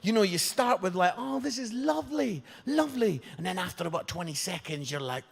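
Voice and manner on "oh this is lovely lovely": higher, contented sigh of words; pleased. Acted. Hugger enjoying the first seconds, pleased. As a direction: savour it, pitched up. Voicing the pleasant start of hug.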